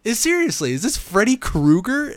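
you can't be serious; incredulous disbelief. Retold or imitated. Mocking absurd scene.

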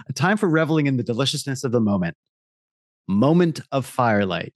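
fast re-read, puzzled by the copy; reading in disbelief. Acted. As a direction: reread it not believing the words. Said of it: "the copy grammatically, uh, doesn't make any sense to me".

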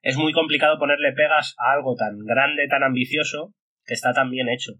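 talking around a candy in the mouth; sucking a hard candy. Real, not acted. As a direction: speak with a sweet in your cheek. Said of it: "tengo un caramelo en la boca".

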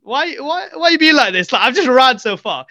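high-pitched childish whine, acted; mock-upset, voice lifted high; pleading protest. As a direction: retell it as a wounded "why me" plea. Child protesting at being refused.

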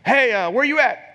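imitating the pastor checking in; Pastor Bubba greeting. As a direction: boom it out like the pastor on the phone. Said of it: "If y'all know Pastor Bubba".

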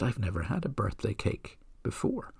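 softly whispered in wonder; awed whisper. Retold or imitated. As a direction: breathe it out, overwhelmed. Agnes amazed at her cake.

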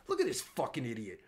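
ordinary delivery

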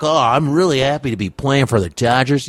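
lightly imitated articulate ballplayer; a hint of a polite, well-spoken athlete; Jackie Robinson. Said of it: "Jackie Robinson talked like that".

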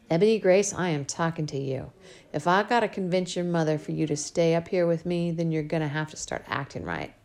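lightly voiced scolding father; a hint of a gentle but firm dad; father scolding his spoiled little girl, lightly voiced; Daddy's voice.

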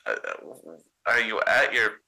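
frightened friend checking in; worried shaky voice. Acted. Doolin worried on phone.

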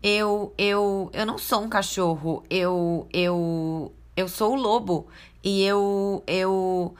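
stammering wolf. Acted. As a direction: trip over every eu. Wolf stammers his claim.

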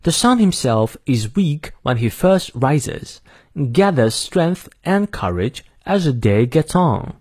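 slow, careful British English reading; British accent with R silent after vowels; British pronunciation. Shown as a demonstration. Teacher reading the whole quote for learners, British pronunciation. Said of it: "英式发音我再念一遍".

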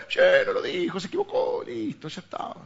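very high-pitched exasperated voice; exasperated mock dismissal. Pastor tells couples to drop a quarrel, high mock exasperation. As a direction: squeak out a hammed-up brush-off.

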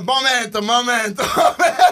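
mock spirit voice. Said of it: "Che arriva là, fai".

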